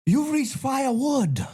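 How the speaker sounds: high, slow put-on Asian phone greeting; mock Asian accent. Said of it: "I do a little bit on that".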